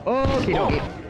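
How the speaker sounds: high squeaky voice. Pretend. Playful high voice.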